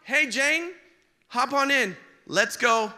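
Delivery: put-on high, loud eager teen calling from a car; lightly hammed-up eager boyfriend; cocky young Joe. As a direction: play the boy honking for his date. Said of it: "Joe goes".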